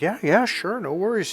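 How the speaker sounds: high-pitched acted going-along; easygoing agreement. Letting him order the burrito, easygoing agreement. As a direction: agree lightly, pitched well up.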